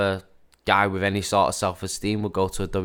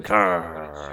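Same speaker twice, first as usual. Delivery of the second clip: mock growl; 4 semitones lower than usual. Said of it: "He's got that growl".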